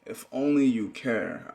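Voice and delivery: "If only you care" drawn out slowly, leaning on "only". Shown as a demonstration. Poet correcting the line, slowly restated. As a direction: take it slow and deliberate. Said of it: "Wait, no".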